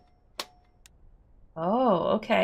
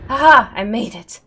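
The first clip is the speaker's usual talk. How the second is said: triumphant laugh; 4 semitones higher, 11 dB louder than usual. Real, not acted. Made it onto the lift.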